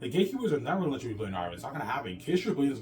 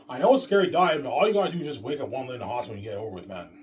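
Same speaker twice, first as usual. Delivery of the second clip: emphatic urging; 2 semitones higher, 9 dB louder than usual. Real, not acted.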